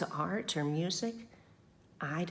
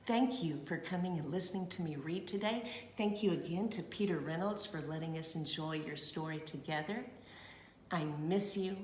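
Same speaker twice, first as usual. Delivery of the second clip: soft, tender sign-off; tender goodbye; 5 dB quieter than usual. Real, not acted. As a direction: say goodbye with love.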